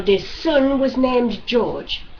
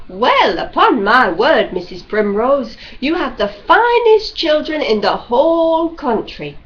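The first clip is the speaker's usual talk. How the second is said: admiring visitor; 3 semitones higher, 4 dB louder than usual. Acted. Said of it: "When our visitors would say".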